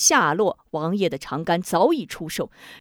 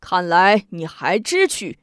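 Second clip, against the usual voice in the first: mocking laugh; 5 dB louder than usual. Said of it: "笑中带嘲".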